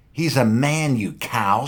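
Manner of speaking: high, loud spat insult; spitting anger. Acted. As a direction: spit the words at her. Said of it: "spat out Wessel".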